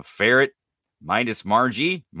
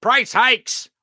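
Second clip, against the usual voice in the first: higher mock outrage of politicians; mock Republican rant; 6 semitones higher than usual. Host mocking Republicans crying about inflation, higher and alarmist. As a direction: parody their alarmist campaign lines. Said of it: "yelling and screaming".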